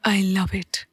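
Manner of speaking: breathy whisper to himself. A narrator's reading. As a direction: whisper it so she barely hears. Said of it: "धीमी आवाज में बोला".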